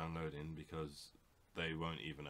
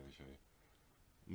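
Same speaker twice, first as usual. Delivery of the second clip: slow villain threat; 2 semitones lower, 12 dB quieter, much slower than usual. Acted. Villain-style muttered threat.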